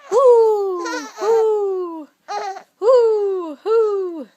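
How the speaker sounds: high loud hooting owl. Shown as a demonstration. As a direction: hoot like an owl. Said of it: "He can sound like an owl".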